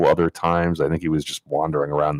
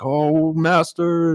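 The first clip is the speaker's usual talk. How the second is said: mock Russian plea; 12 semitones higher, much slower than usual. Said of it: "he's got a very thick Russian accent".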